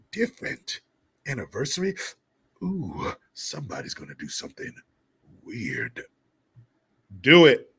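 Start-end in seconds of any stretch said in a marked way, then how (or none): 3.3-6.0 low, soft, insinuating tease; low suggestive voice. Pretend. Suggestive low teasing line. 7.2-7.7 loud cheering command; loud urging. Acted. Urging couple on.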